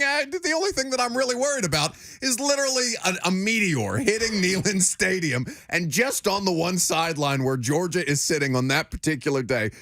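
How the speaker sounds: high, breezy, unbothered fan voice; mock carefree Georgia fan. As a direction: play the smug fan who fears nothing.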